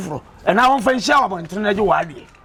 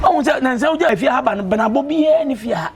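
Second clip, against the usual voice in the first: angry shout. Acted. Scolding in a household quarrel.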